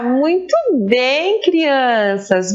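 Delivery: usual speaking voice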